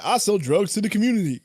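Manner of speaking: lightly voiced blaxploitation character line; quick mock movie-hero delivery with bouncing pitch; Black Dynamite. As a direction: quote it with a hint of impression. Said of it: "from freaking Black Di".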